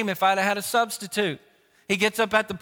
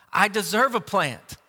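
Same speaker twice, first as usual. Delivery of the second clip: Jonah, so mad. Acted. Preacher as Jonah arguing with God, mildly angry and entitled. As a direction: insist on being right, a touch of anger. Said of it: "I'm so mad".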